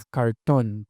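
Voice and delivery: "Cartón" with an English-like curled r; retroflex R. Shown as a demonstration. Lecturer giving a rare local example, retroflex R. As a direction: curl the r back in "Cartón". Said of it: "una articulación retrofleja como la del inglés".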